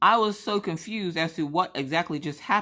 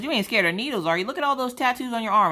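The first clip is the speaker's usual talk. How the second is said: put-on country accent; 6 semitones higher, faster than usual. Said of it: "he had a country accent".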